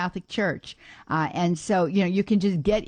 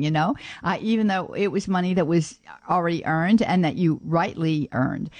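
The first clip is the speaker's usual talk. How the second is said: ordinary talk, nothing marked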